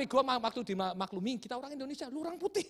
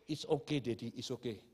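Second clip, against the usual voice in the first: reassuring wife; 11 semitones lower, 5 dB quieter than usual. Retold or imitated. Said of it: "istri saya cepet-cepet".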